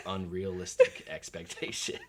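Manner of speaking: laughing through the words. Real, not acted. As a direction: chuckle it out. Laughs at own point.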